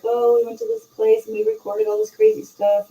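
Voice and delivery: high-pitched voice for a chatty couple; imitating excited couple. Retelling a cute couple's weekend account, in a high imitating voice.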